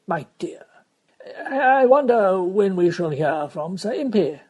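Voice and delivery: a mother's voice breaking with worry; near tears. Acted.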